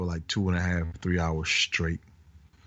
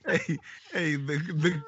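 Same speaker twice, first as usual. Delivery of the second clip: laughing; 10 semitones higher, 3 dB quieter, slower than usual. Real, not acted. Host laughing at cohost's joke.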